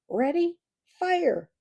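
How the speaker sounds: high loud orders; called command. Acted. Matthias gives the archers the final firing command, loud call. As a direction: call the volley to fire. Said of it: "called Matthias".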